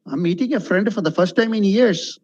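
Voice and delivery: unexpressive, even tune through to "years"; deliberately dull demo, "years" left unstressed; no intonation. Shown as a demonstration. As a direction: recite it with no feeling on "friend" or "years".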